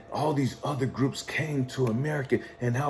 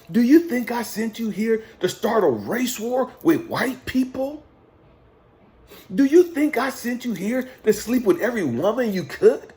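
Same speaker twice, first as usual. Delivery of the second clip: impassioned preaching mentor; 5 semitones higher than usual. Retold or imitated. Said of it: "And then he said".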